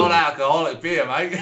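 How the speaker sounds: hammed-up bad Aussie; terrible Australian accent. Co-host mimicking an Australian barman, terrible accent. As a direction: parody a poor Australian accent. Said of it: "It's a terrible accent".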